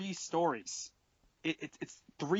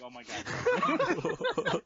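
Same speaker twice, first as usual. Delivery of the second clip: exasperated; 14 semitones higher, 5 dB louder, much slower than usual. Retold or imitated. Exasperated reaction.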